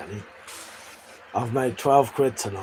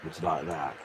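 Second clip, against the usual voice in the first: soft, hushed ASMR demo; lightly tried ASMR voice; 6 semitones lower, 5 dB quieter than usual. Shown as a demonstration. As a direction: drop into a quiet ASMR murmur. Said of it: "I could always start doing my, um, A S M R voice".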